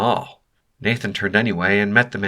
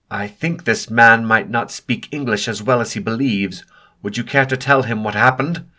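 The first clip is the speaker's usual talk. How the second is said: icy; 3 semitones higher, 5 dB louder than usual. Acted. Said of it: "ice in his voice".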